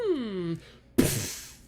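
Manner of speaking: hummed "mm", then an unvoiced "pfft"; imitated storehouse noise. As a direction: voice a noise from the back room. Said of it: "you hear".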